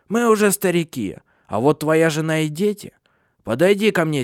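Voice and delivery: high, forceful crone voice; insistent old woman. A narrator's reading. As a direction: speak as the old matriarch giving instructions. Old Hanna answers, summons Silia.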